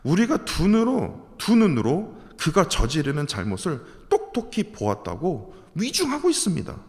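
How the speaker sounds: normal talking voice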